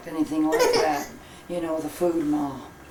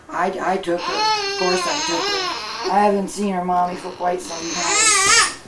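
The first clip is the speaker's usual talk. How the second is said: tearful; 9 semitones higher than usual. Acted. Grandmother weeps about daughter.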